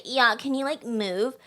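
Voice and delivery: dismissive mock Valley Girl; Valley Girl accent. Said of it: "the Valley Girl".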